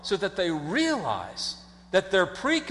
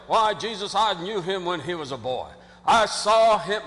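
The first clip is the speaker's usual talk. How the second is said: put-on southern accent; 4 dB louder than usual. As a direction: play a proud hometown local with a southern accent. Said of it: "I don't know why they have southern accents".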